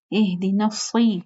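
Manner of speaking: slow "الص" with held heavy s; heavy saad. Shown as a demonstration. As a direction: stretch "اہدنا الص" into a full saad. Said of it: "اس کو ہم لوگ سی پڑھتے ہیں". ("الص" موٹا صاد، کھینچ کر)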